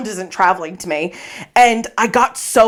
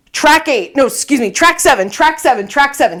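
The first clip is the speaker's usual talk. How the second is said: higher, insistent repeated instruction; urgent directions; 4 semitones higher than usual. Acted. Passenger directing the taxi at the station, urgent. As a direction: fire off corrections to the driver, pushing each one.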